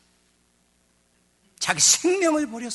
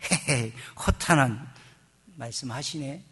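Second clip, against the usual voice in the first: lightly acted disbelieving chuckle; mock scoffing chuckle; 3 semitones lower than usual. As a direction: imitate a dismissive little laugh, drawn out then trailing off. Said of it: "속으로 웃는 걸".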